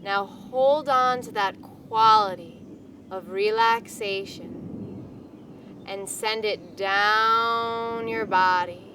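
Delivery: unhurried, soothing hypnotic pacing; guided meditation. Acted. Leads a guided relaxation.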